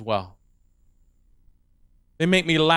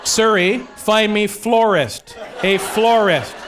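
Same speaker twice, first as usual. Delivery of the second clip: voice command; 4 semitones higher, much slower than usual. Retold or imitated. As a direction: enunciate hard for a voice assistant. Dictating to phone voice assistant.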